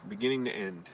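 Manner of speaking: the barest trace of an Irish lilt on "beginning to end"; just a sliver of Irish accent; faint Irish accent. Real, not acted. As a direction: let a hint of Irish slip in unintended. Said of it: "a two percent of an Irish accent in there".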